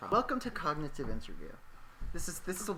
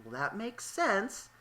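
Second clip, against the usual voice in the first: slow patient teacher; 5 semitones higher, much slower than usual. Retold or imitated. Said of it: "I'm like".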